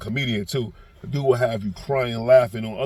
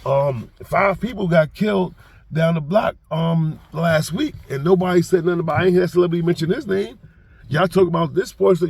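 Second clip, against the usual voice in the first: heated rant; 5 semitones higher, 4 dB louder than usual. Retold or imitated. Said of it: "He be like".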